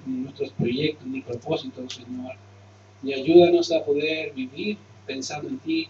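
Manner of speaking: hushed closing prayer. Acted. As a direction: pray sincerely over the congregation.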